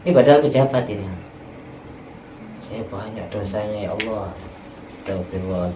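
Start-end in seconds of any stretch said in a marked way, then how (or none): 2.6-5.7 tearful confession. Retold or imitated. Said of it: "orangnya nangis".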